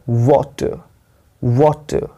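वाटर with a held, stressed वा and light टर; first-syllable stress. Shown as a demonstration. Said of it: "पहले वाले syllable पे stress देना है".

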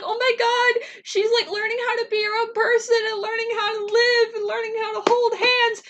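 high, squealing, near tears with joy; gushing fangirl squeal. Retold or imitated. Fan reliving the ending, squealing with teary joy. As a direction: gush over the couple in a high squeal. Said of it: "I was like".

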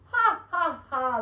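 loud, high acted "ha, ha, ha"; big storybook laugh; Santa's laugh. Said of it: "laughed Santa".

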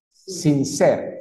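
"Sincero" as English sincere, slowly, final O dropped; teacher's slow model word; model pronunciation. Shown as a demonstration. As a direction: stretch both syllables, sin-SER. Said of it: "lo más correcto que lo he escuchado siempre es sincero".

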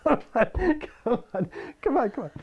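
high droning voice through the talk box reed. Acted. Demonstrating the straw talk box to viewers, buzzy and high.

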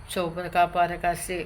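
strange run of repeated syllables; speaking in tongues. Real, not acted. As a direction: pray in spirit language. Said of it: "ขออนุญาตใช้ภาษาพระวิญญาณ".

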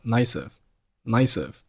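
"nice of" run together as one word; linked words. Shown as a demonstration. Teacher demonstrating linking for learners, linked "nice of". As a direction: link the c of "nice" straight into "of". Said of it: "nice和of连读成了".

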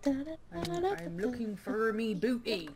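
a hint of a drunk pirate; lightly slurred pirate voice. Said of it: "I am a drunk pirate".

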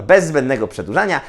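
ordinary delivery

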